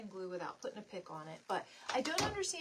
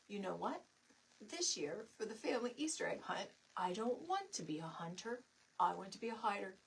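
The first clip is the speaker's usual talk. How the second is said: put-on serious child voice; 2 semitones lower than usual. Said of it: "he talks, like, all, like, serious".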